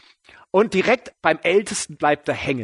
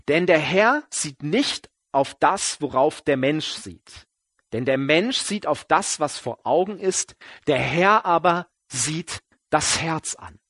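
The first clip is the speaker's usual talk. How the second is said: slow, measured Bible reading; slow, solemn recitation; scripture reading; slower than usual. A narrator's reading. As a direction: read the verse out deliberately, with weighty pauses. Reads Bible verse aloud.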